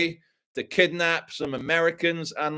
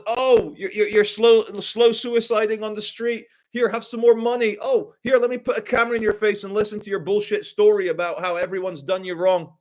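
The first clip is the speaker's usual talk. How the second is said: much higher, sing-song sarcastic voice; mock the fawning content maker; mocking the enabler; 6 semitones higher than usual. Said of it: "What's he gonna call them?".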